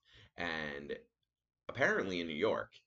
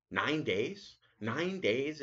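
rising, louder disbelief at the wait; mock incredulous; 8 semitones higher, 4 dB louder, much slower than usual. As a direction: throw the question back in disbelief. Retold outrage at nine days.

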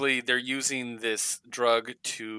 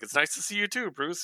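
high, lightly acted pleasantry; a touch of teasing politeness; mock friendly retort; 8 semitones higher than usual. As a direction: greet him pointedly, pitched up. Superman retorts to Bruce's scolding.

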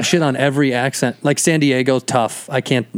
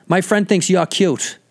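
high, slow Boston-girl impression; mock Boston accent, drawn out; 5 semitones higher, slower than usual. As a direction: imitate a brash girl from Boston. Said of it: "I'm trying to do a Boston".

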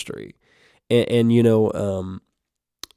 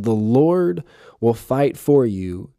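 slow emphatic repeat; slower than usual. Shown as a demonstration. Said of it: "This is what I wanted to emphasize".

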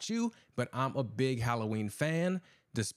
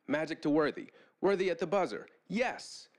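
raised, climbing play-by-play call; bellowing sports announcer; 6 semitones higher than usual. A narrator's reading. TV announcer calling a basket at the buzzer, bellowing. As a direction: build to a high exclamation at the buzzer. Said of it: "the announcer bellowed".

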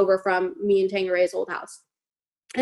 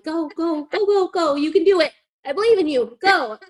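cheering him on; 5 semitones higher, 4 dB louder than usual. Retold or imitated. Pushing drunk boyfriend down lawn.

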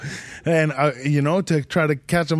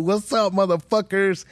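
higher, pumped-up hello to the crowd; comic greeting the audience, pitched up and pumped; hype crowd greeting; 5 semitones higher than usual. Retold or imitated. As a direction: hype up the room as you walk on.

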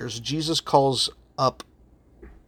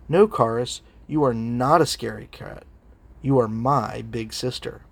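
gently voiced sincere little sister, lightly imitated; low-key tenderness, slowing down at the end; sweet, sincere; 3 semitones lower than usual. Four-year-old reassuring her big sister, sweetly sincere. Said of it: "with the sweetest, most sincere expression".

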